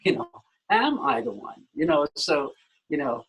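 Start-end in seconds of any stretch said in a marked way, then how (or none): 0.7-1.6 "am" hit first and hard, then falling; stress on AM. Shown as a demonstration. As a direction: open on "am" with the weight. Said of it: "every time you emphasize a different, uh, word".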